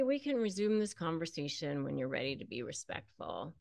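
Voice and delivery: soft, even and unemotional; calm and polite. Shown as a demonstration. Calmly ending a conversation with a disrespectful partner. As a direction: set the boundary quietly without heat. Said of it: "you can just say".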